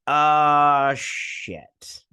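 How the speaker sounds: a loud startled "Uh", then a whispered curse; jolt, then breathe the curse out; shocked reaction. Real, not acted. Shock at king's announcement.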